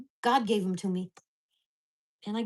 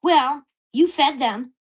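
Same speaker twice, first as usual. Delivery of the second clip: mock neighbor retort; 3 semitones higher, 8 dB louder, slower than usual. Neighbor's reply in quarrel.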